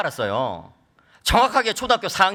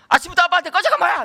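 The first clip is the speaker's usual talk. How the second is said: high-pitched exasperated dad; retold indignant scolding; 11 semitones higher, 3 dB louder than usual. Father scolding his rude teenage son, indignant. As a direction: act out a father taking offence. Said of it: "이러면".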